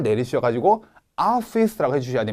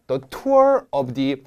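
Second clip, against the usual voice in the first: very slow reading; 4 semitones lower, much slower than usual. Shown as a demonstration. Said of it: "뭘 시작한다?".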